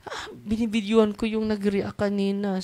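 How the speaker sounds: mimicked high-pitched excuse; mock complainer. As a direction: imitate the hapless person who filmed. Mimics the person who filmed.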